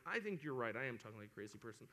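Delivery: low, soft retold admission; imitating a subdued climb-down; sheepish concession. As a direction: concede quietly, trailing right down. Conceding to wife after dream.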